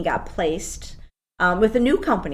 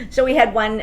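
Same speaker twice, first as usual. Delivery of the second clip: talking through a laugh; 6 semitones higher, 6 dB louder than usual. Real, not acted. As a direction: let the giggle spill into the words. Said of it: "See that I'm smiling".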